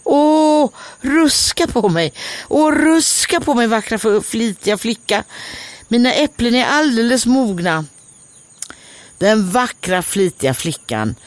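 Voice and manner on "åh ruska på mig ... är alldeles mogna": high pleading voice; a begging apple tree, much higher; high, longing tree voice; tree calling out. Acted. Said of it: "Då ropade trädet till henne".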